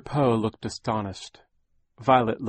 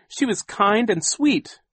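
put-on high, slow earnest boy; boy insisting tenderly; Klaus crying out; 13 semitones higher, 7 dB louder, slower than usual. A narrator's reading. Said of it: "Klaus cried".

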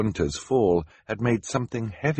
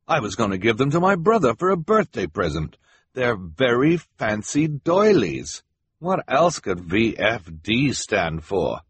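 higher-pitched, insistent bidder explaining; indignant bidder; 3 semitones higher, 3 dB louder than usual. Acted.

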